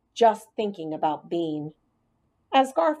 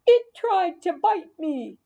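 higher, louder, slow indignant fright; frightened exclaim; 12 semitones higher, 4 dB louder, slower than usual. Acted. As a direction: protest in fear that it bit you. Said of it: "Marty exclaimed".

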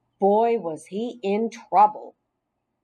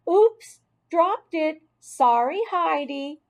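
mock apology; 8 semitones higher, 3 dB louder, slower than usual. The speaker fakes dropping the cricket.

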